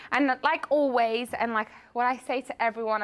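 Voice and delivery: breathless, gasping between words; out of breath. Real, not acted. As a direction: speak while catching your breath. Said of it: "I'm so out of breath".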